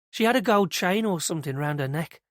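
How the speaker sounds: put-on earnest young witness telling it eagerly; girl's voice.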